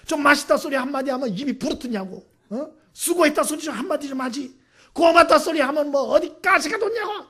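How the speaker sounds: a mother yelling that nobody thanked her for the holiday feast; angry outburst. Retold or imitated. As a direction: let the mother's hurt boil over into a shout. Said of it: "이분이 화가 났어요".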